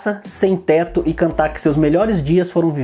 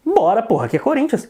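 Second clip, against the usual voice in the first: excited cheer; 6 semitones higher than usual. Retold or imitated. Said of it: "o que que eu falei?".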